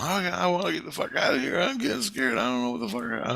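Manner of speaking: high-pitched panicky kid, mock scared. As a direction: whine it high like a frightened kid. Retold scared kid screaming.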